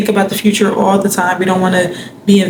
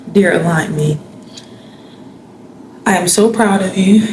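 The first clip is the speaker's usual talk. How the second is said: sincere self-affirmation. Shown as a demonstration. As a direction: speak it gently, like reassuring someone you love. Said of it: "I'm gonna say it".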